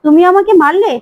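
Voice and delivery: disbelief after being slapped; a touch of acted shock. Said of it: "টিপও চমকে যায় আর বলে".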